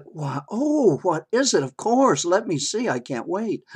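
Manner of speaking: high, loud, delighted eagerness; excited mother. Retold or imitated. Mother to child showing a drawing, thrilled and eager. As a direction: burst with eager anticipation, acting the mom. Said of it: "she was so happy".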